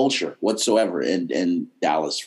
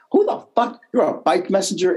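incredulous; 7 semitones higher than usual. Real, not acted. Exclaims about Texas heat.

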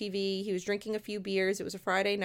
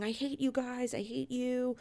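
slightly raised, mildly acted panic; retold terrified outburst; 3 semitones higher than usual. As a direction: lightly imitate a frightened girl lashing out. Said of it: "she was terrified the next".

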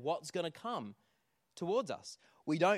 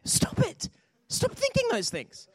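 high, exasperated comic shout; mock yell; 9 dB louder, slower than usual. Counselor ordering a client to drop her fears, yelling.

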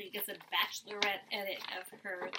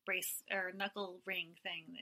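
whisper; 4 semitones lower, 10 dB quieter than usual. Real, not acted. Trailing off.

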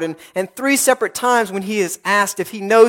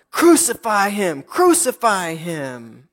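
restrained mob chant, second cry drawn out; angry crowd cry; slower than usual. Acted. Preacher voices the crowd before Pilate, contained angry cry. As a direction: voice a crowd's violent demand without shouting. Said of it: "an unbelievably horrible one".

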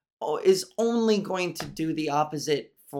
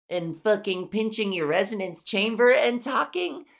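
pitched up higher, showing the strain; voice-training demo, higher; raised trained voice; 5 semitones higher than usual. Shown as a demonstration. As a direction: push the voice up to demonstrate. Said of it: "talking like this".

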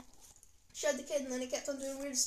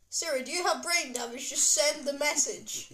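mock irate dad, ending slow and louder; imitated exasperation; 4 dB louder, slower than usual. Child quoting a dad fighting with Siri, mock exasperated. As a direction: lose patience with a voice assistant, mimicking. Voices dad's exasperated dictated text.

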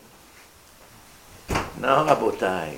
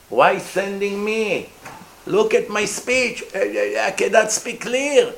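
pleading Moshe; 4 semitones higher than usual. Acted. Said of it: "Moshe finds excuses".

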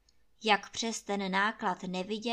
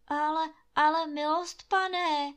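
higher, stammering, scared gamekeeper; frightened stammer; 6 semitones higher, 5 dB louder than usual. A narrator's reading. Gamekeeper stammering in fear before his master. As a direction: stutter it out in fear. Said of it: "koktá Hajný ze samého strachu".

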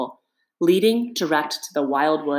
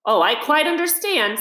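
soothing; 9 semitones higher than usual. A narrator's reading. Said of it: "said the rat soothingly".

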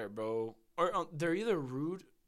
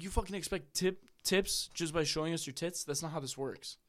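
retold telling-off; 3 semitones higher than usual. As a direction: retell snapping at someone, mildly heated. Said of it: "I just started yelling at her".

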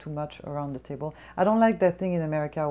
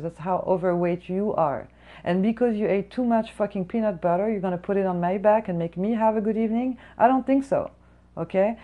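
imagined rant at the customer, louder; pretend telling off; 3 dB louder than usual. Server imagines telling off the rude customer, angry rant. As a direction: vent it like the rant she never said. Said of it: "I really wanted to tell her".

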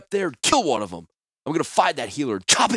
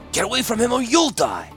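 high, loud, furious warning; threatening shout; 13 semitones higher, 5 dB louder than usual. A narrator's reading. Killer threatening the healer over the guard, furious shout. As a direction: build to a yelled threat. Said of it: "Klars shouted".

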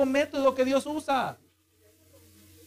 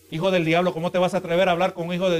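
mock rude rebuke; 3 semitones lower, faster than usual. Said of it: "No, no. Con respeto".

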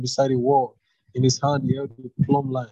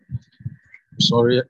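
slow apology; 3 dB louder, much slower than usual. Real, not acted. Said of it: "I'm sorry I'm reading so fast".

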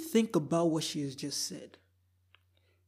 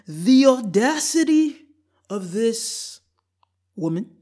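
outraged; 4 semitones higher, 7 dB louder than usual. Real, not acted. Outraged reaction to the post.

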